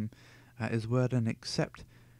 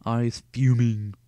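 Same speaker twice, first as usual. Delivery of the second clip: exclaim; 9 dB louder, slower than usual. Real, not acted. Reader reacts to the text.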